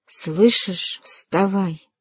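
understated hissed order, terse and menacing; hissed command. A narrator's reading. Father repeats his order to his daughter, hissing. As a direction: hiss it with restrained anger. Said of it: "прошипел он".

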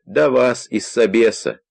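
put-on high, shaky old man's voice; quavering old man voice. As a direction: play a doddering old man at the door. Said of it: "чуть дребезжащим старческим голосом".

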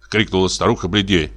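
ordinary delivery

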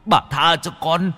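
pleading rises into a wail; desperate plea breaking upward. A narrator's reading. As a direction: cry out for mercy. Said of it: "chắp tay mếu máo".

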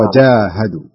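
وجاهدوا slowly, with a hard "j"; firm jīm. Shown as a demonstration. Teacher correcting student, slow firm وجاهدوا. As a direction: stop the ج of وجاهدوا firmly, then lengthen "ā". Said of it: "فاجعلها".

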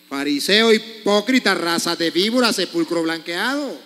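denuncia fuerte, cada insulto golpeado; reproche bíblico a gritos. Acted. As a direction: lanza los insultos como un profeta. Reproche bíblico a los fieles. (reproche fuerte y acusador)

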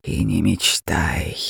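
low, slow, half-whispered threat; menacing dragon. Acted. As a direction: crush her hope in a slow low hiss. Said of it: "грозно ответил его голос".

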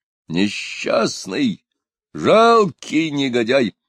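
slow, menacing outburst; slow threatening insult; menacing shout. A narrator's reading. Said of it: "закричал Пугачёв грозным голосом". (грозный медленный окрик)

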